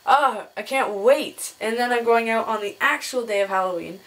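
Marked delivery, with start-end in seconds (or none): 0.0-1.5 slow, drawn-out excitement; excited. Real, not acted. Vlogger looking forward to dressing up on Saturday, excited. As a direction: stretch the words out with eagerness. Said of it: "I am so excited".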